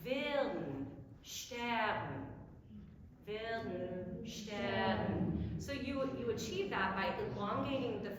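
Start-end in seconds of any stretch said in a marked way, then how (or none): 0.0-2.2 "Willen" and "Stern" with a long first part and a quick nasal end; two-syllable willen stern. Shown as a demonstration. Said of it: "two-syllable word". 3.3-5.4 "Willen" and "Stern" with a long first part and a quick nasal end; two-syllable willen stern. Shown as a demonstration. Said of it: "two-syllable word".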